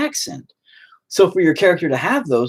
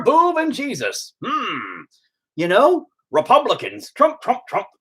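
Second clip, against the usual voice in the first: mock Americanized Japanese. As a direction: parody a Japanese visitor gushing about America, played for laughs. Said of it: "they wouldn't just come to America and be American".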